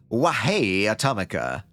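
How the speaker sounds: put-on Tommy Wiseau accent. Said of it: "that almost sounds more like Tommy Wiseau".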